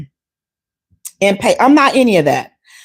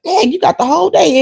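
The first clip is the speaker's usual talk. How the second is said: mock dismay; 7 semitones higher than usual. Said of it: "I'm like".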